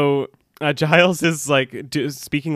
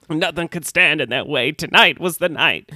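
lilting Southern belle voice; Southern belle accent. Acted. Wounded barkeep tells Buffy, Southern belle accent. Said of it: "doing a Southern Belle accent as well".

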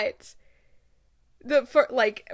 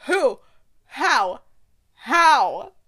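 indignant outcry; 6 dB louder, much slower than usual. Real, not acted. Ranting at people choosing Michael.

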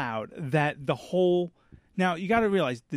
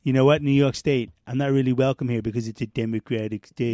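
Trump impression; 4 semitones lower than usual. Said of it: "Mister Trump".

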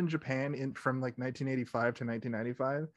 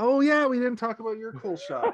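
laughing while talking; 8 semitones higher, 5 dB louder than usual. Real, not acted. Laughing remembering shot.

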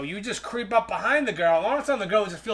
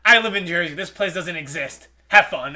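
scoffing bouncer; 2 semitones lower, 4 dB louder than usual. Retold or imitated. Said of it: "He scoffs at me and goes like".

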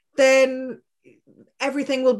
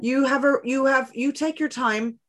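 tender reassurance. Retold or imitated. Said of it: "I want to empower her and say".

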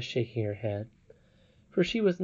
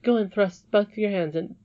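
loud hammed-up command; 8 semitones higher, 5 dB louder than usual. Shown as a demonstration. Reader hams up the princess's command, loud. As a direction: GO thrown out high and loud. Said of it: "this is hilarious".

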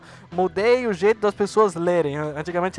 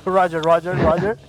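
Airplane movie quote; 5 dB louder than usual. Retold or imitated. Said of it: "naquela cena do, do Roger".

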